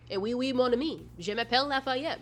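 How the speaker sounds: put-on playful French accent as Lafayette. Introducing Lafayette as chaotic and French, playful French accent. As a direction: slip briefly into French speech. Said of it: "who is chaotic and also French".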